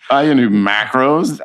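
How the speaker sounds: high, loud, slow insistence on "I can do macros"; hammed-up eager boast, stretching "can"; overeager boast. Retelling his audition, eagerly overselling himself to the director. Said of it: "And I was like".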